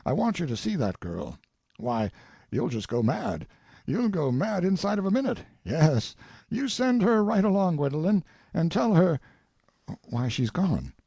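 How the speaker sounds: overflowing with a happy idea; delighted old father. A narrator's reading. Father telling Tracy about Belle, mildly delighted.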